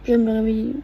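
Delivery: croaky just-woken-up vocal fry; morning voice. Real, not acted. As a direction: talk with fresh-out-of-bed vocal fry. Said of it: "Ma voix du matin, c'est horrible". (voix du matin avec friture vocale)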